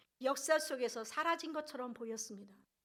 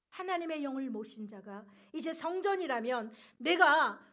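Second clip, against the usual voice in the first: ordinary talk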